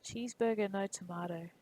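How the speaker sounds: "Cheeseburger, no tomato" in a fake American accent; mock American accent. Streamer imitating an Aussie friend's American accent. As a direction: put on a John Wayne style American accent for "Cheeseburger, no tomato". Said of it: "where he says it in an American accent".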